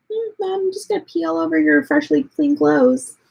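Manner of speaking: playful pet voice, lightly done; voicing the dog. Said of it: "He's like".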